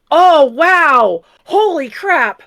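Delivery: sudden loud shock; surprised. Real, not acted. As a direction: gasp it out in surprise. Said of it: "You said that like that's a big thing".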